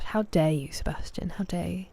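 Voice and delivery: whispered mock outrage; mock offended. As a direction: pretend to be scandalized, in a hush.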